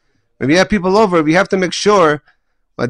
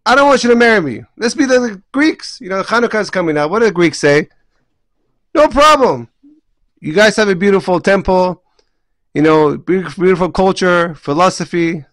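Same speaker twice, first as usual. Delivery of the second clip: enticing Greeks; 3 semitones higher than usual. Retold or imitated. Rabbi voices the Greeks luring Jews from spirit, lightly mocking. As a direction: sell the easy life with a smile. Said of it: "comes and says".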